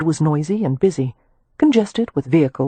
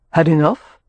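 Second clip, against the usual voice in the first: pleasant; 4 dB louder than usual. Acted. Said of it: "he asked pleasantly".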